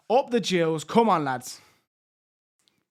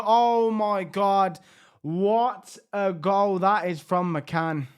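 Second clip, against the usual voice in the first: amazed exclamation; much slower than usual. Real, not acted. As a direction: let the disbelief stretch the words. Stunning goal scored against them.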